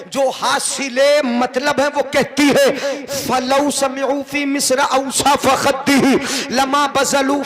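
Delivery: measured, sustained preaching delivery; sermon declamation. Acted. Preacher quoting Aisha's praise to the congregation, declaimed. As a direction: declaim the verse on a steady, ringing line. Preacher recites Arabic verse.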